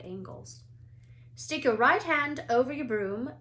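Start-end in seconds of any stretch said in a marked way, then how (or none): 1.3-3.3 higher, louder call. A narrator's reading. Madame Hooch calls instructions to the class. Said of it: "called Madame Hooch at the front".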